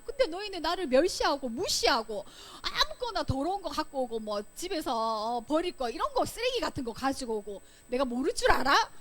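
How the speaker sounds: God taking the people to task; confronting accusation. Acted. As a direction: argue it point by point, demanding an answer. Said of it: "이렇게 따지듯이 말했어요".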